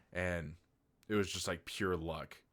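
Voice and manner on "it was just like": usual speaking voice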